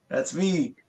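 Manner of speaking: mildly excited self-quote; retold hyped outburst. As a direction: replay your excited boast to annoyed onlookers. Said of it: "I was so hyped".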